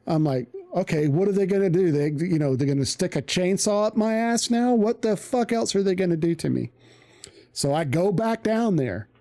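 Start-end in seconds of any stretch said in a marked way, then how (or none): 0.8-6.7 exasperated rant. Retold or imitated. Panicked inner rant about punishment.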